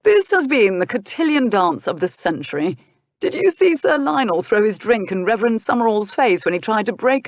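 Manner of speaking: lightly voiced gossiping gentleman; a hint of lively, amused drawing-room gossip. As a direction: recount the fracas with relish. Mars gossips with relish.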